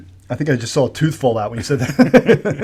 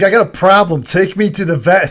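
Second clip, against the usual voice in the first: cat voice; 4 semitones higher, 5 dB louder than usual. Pretend. S1 voicing the cat.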